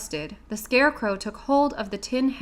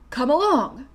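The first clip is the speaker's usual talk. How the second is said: bright, welcoming call from the Scarecrow, a touch higher and louder; hearty; 4 semitones higher, 4 dB louder than usual. A narrator's reading. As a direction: invite them along heartily. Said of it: "said the Scarecrow heartily".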